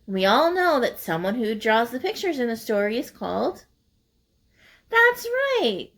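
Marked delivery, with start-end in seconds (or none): 4.9-5.9 1 teacher prompt. Real, not acted. Teacher prompting class answer.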